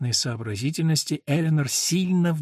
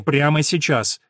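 impatient; 5 dB louder, slower than usual. Acted. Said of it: "прорвалось нетерпение".

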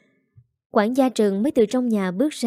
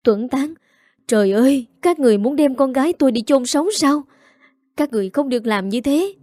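wailing mother; 4 semitones higher than usual. Acted. Mother wails at the household over her daughter's burial. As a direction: cry out in horror for her daughter. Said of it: "Bà Tâm gào khóc".

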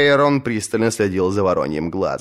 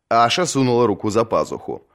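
ordinary delivery, nothing marked

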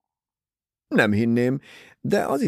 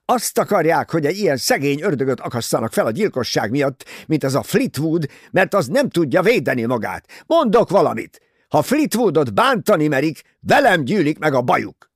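higher, louder, rushing tirade; furious outburst; 6 semitones higher, 6 dB louder than usual. A narrator's reading. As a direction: shout down the detectives to defend a friend. Ferguson's outburst defending Fleetwood.

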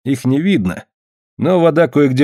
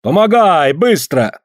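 barked order; 8 semitones higher, slower than usual. Acted. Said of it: "прикрикнул".

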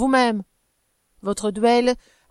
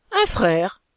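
insulting irony; 3 dB louder than usual. Acted. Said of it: "avec le même ton d'ironie insultante".

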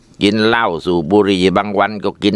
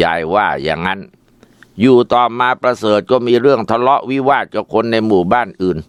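plain reading voice

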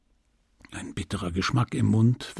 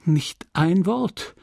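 slow, higher-pitched drawn-out questioning; urgent questioning; 6 semitones higher, slower than usual. A narrator's reading. Husband questioning his wife, urgent questioning. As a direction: plead for a reason, drawing the words out.

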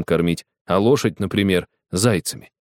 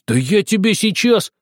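threatening shout; 13 semitones higher, 4 dB louder than usual. Acted. Boy threatening girl.

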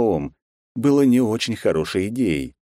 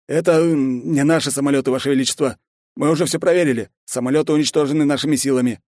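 higher, louder eager subordinate voice; lightly voiced nervous general; the general bowing to the emperor, higher and a bit louder; general's voice; 9 semitones higher, 3 dB louder than usual. General excuses himself.

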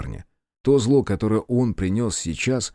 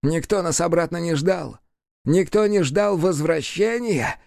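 demon hissing; 8 semitones higher than usual. A narrator's reading. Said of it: "зашипел он".

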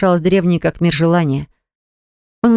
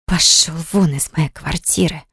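hissing hatefully. A narrator's reading. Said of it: "и зашипела".

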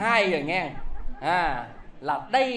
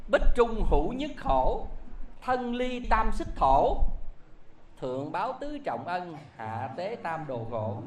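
recited verse. Acted. Young man improvises a verse.

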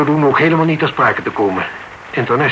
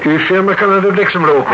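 raised, angry retort; angry outburst; 5 semitones higher than usual. Acted. Boze klant tegen detective. (boos uitgevallen)

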